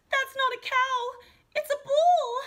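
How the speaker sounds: high, loud rising panic; alarmed gasp. A narrator's reading. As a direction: realize the danger all at once. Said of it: "Katie gasped".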